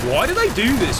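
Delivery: high, whining swoop of bafflement; mock baffled YouTuber. Mocking video essayists mid-game, high baffled whine. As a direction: whine it like a clueless critic. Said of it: "when I talk like Half-Life two voice".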